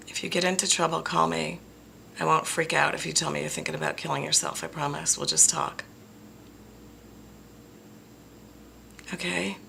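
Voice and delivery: soft, tender reassurance; sincere. Real, not acted. To struggling viewers, a soft tender promise. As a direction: speak gently to someone in pain. Closing heartfelt plea to viewers.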